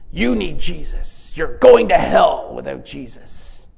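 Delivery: slow, drawn-out doom warning; a hint of a grim street preacher; imitating a street preacher. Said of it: "this street preacher would say".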